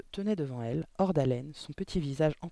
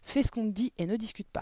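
stern father, pitched up, cutting off argument; barked order; 6 semitones higher than usual. A narrator's reading. Father silencing his protesting daughter, barked order. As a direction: order her sharply to obey. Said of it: "aboya son père".

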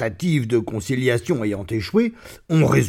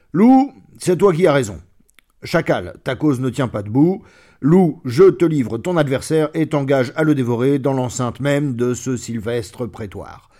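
lordly verdict; 4 dB louder than usual. Acted. Lion delivers his verdict.

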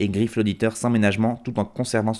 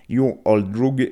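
self-mocked American accent; much slower than usual. Real, not acted. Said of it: "me ridiculiser avec mon accent américain dégueulasse".

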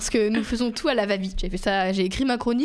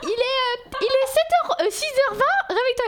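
father waking her; 13 semitones higher than usual. Retold or imitated. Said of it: "Il vient me réveiller, il fait".

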